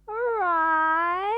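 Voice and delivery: high, loud cheerful Right-o; cheerful high call. Acted. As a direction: sing it out brightly. Slow taxi driver answers.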